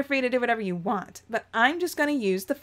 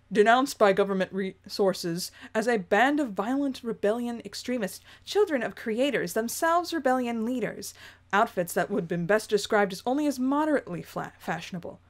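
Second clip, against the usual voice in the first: reporter voice. Acted. News reporter announcing the rebels' appearance, in a lightly voiced reporter read. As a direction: read it like a hurried field reporter on air. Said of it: "I get to do a reporter voice".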